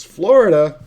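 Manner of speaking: loud, high mock-astonished outburst; incredulous echo. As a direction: throw the word back, loud and disbelieving. Retold incredulous reply to dealer.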